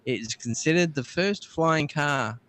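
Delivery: measured reading of a dated entry; read-out history item. Acted. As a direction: announce the date, then read it out. Reads out tech history item.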